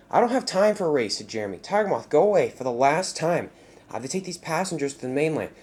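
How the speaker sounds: an impatient jet trying to shake off a pest; exasperated jet plane. Acted. Jeremy tells Tiger Moth to go away, exasperated.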